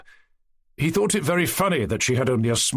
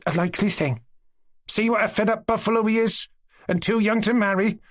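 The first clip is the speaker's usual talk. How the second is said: mocking; 11 semitones higher than usual. A narrator's reading. Girl mocking the master.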